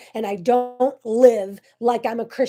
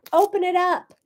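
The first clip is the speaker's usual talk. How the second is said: urging; 8 semitones higher than usual. Real, not acted. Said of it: "I dare you".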